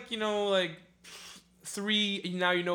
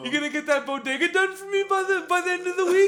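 higher, mock boss voice; 9 semitones higher, 5 dB louder, faster than usual. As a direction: play the nagging boss checking in. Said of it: "He's like".

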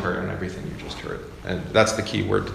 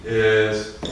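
ordinary talk

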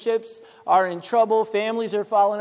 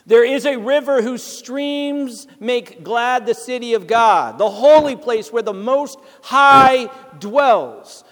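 louder, ringing Bible reading; scripture reading; 4 dB louder than usual. Acted. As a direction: proclaim the verses with confidence.

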